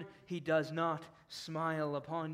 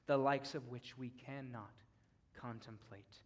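much softer and lower, a near-whisper of dread; hushed awe; 7 semitones lower, 10 dB quieter than usual. Real, not acted. Preacher hushing his congregation before God's wrath, soft and low. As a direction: let the wrath sink in, barely above a breath.

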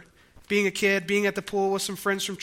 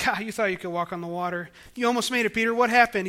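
teasing voice rising at the end; mock taunting; faster than usual. Pastor imitates Jesus taunting sinking Peter, mock teasing. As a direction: needle him for nearly making it. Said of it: "laugh at Peter like".

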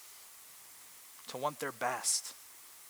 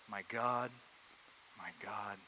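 anguished cry; 3 semitones lower, 6 dB quieter than usual. Acted. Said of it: "listen to this cry".

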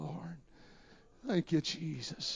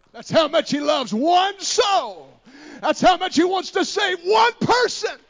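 high, loud, fervent preaching shout; preaching at full force; 12 dB louder than usual. Acted. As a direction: preach it out, building the fire. Preaching climax.

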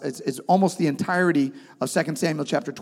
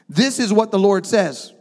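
prophet's pronouncement; 4 semitones higher, 4 dB louder than usual. Retold or imitated. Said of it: "This is Nathan".

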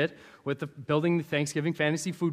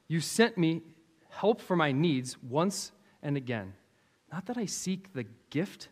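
scripture reading; 3 dB louder than usual. Acted. Reads Philippians aloud.

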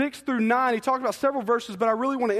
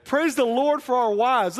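normal talking voice

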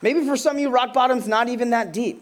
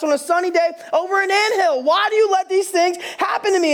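anguished crying out to God; 6 semitones higher than usual. Retold or imitated. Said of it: "you're screaming out, crying out at the top of your lungs".

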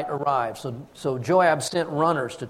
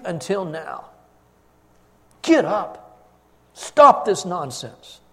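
louder, higher scolding of the king; stern rebuke; 5 semitones higher, 5 dB louder than usual. Acted. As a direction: build the reprimand to a hard final command. Joab rebukes the grieving king.

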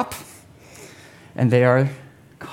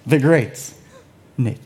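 showman announcement; 4 semitones higher than usual. Pretend. Announcing himself.

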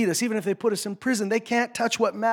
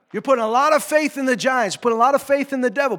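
high and loud, driving faster; rising preaching; 6 semitones higher, 6 dB louder, faster than usual. Real, not acted. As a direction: pound it out louder. Preacher builds intensity.

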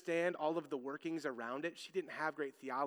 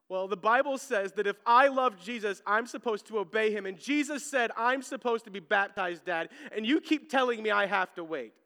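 put-on child's earnest plea; 5 semitones higher, 8 dB louder than usual. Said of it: "And she's like".

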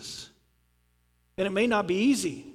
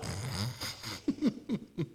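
disciples stifling a laugh; 9 semitones lower, 10 dB quieter than usual. Retold or imitated. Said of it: "trying not to laugh".

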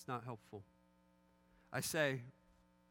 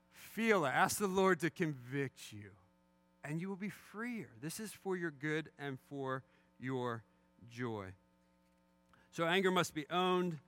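ordinary talk, nothing marked

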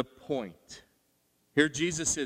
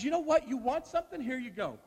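sarcastic God; 10 semitones higher than usual. Acted. God voiced handing over snakes.

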